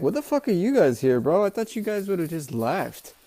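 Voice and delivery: mock disbelief. Reviewer voices Sanji seeing family return, mock disbelief. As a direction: play a baffled guy questioning unexpected arrivals.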